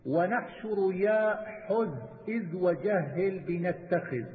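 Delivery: slow, drawn-out recital of didactic verse; verse recitation. Acted. Teacher reciting a verse on Quran readings, measured recitation. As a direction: recite the poem in measure, stretching the long syllables.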